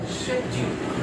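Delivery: शेड्यूल high and loud with a "sh" start; British pronunciation. Shown as a demonstration. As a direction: punch out "SHED-yool". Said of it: "British में शे बोलेंगे". (शेड्यूल ऊँची, तेज़ आवाज़ में, "श" पर ज़ोर)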